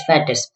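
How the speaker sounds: "fattest" said slowly and clearly, fat-test. Shown as a demonstration. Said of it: "this is not fattiest".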